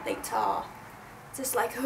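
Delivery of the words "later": "later" ending on an H-like breath; breathy H ending. Shown as a demonstration. Explaining the British ending, "later" with an H-like finish. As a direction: let "later" trail into an airy H. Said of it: "something like an H at the end".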